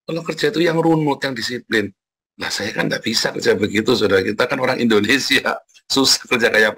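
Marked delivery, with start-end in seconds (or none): 0.0-1.9 mild mimicked instruction. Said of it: "ngajarin saya".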